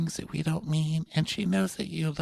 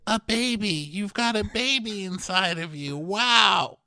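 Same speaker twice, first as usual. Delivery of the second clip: mock excited doctor; 6 semitones higher, slower than usual. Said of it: "my doc said".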